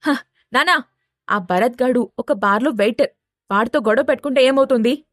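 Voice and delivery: mildly irritated retort; acted, understated exasperation. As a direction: push back with a touch of annoyance. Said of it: "చిరాగ్గా".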